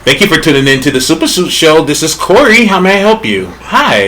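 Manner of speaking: quick, polite customer service voice; work voice. Pretend. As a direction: answer like a call center agent. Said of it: "I gotta turn on the work voice".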